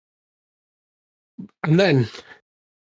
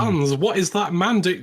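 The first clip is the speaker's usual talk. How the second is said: mock German soldier; 4 semitones higher than usual. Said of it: "Imagine being on the German side".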